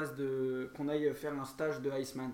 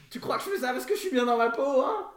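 in ice cold water; 8 semitones higher, 9 dB louder than usual. Acted. Acted swimmer in ice bath.

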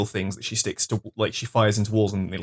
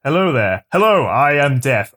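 grim reaper voice; 5 dB louder than usual. Pretend. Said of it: "I'll speak up then".

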